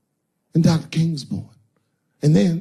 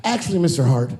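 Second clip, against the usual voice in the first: a touch louder, flat and deadpan; polite but pointed, like a cheeky kid; cold kid; 5 dB louder than usual. Retold or imitated. Son tells Kevin they haven't eaten, deadpan and a bit louder. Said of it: "He goes".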